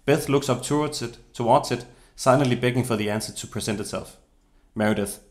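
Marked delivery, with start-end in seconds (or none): none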